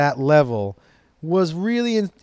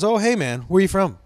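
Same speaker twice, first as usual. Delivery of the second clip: lightly imitated stoner, pitched up; Cheech; 4 semitones higher than usual. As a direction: greet a stranger as a mildly spacey stoner. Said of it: "he sounds just like Cheech".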